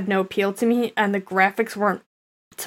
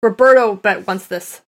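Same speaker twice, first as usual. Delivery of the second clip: excited teasing; 3 semitones higher, 9 dB louder than usual. Real, not acted. Teasing a friend loudly.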